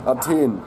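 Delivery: Athen said the German way, "ah-TAYN"; German pronunciation. Shown as a demonstration. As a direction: say Athen in German, hard t and long e. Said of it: "auf Deutsch".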